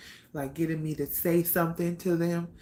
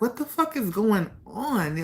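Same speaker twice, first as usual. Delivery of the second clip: slow, raised, demanding; angry brother; 4 semitones higher, 4 dB louder than usual. Retold or imitated. Furious brother demanding answers, slow and higher. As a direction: spit out the question in anger, higher. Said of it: "he just was so pissed off".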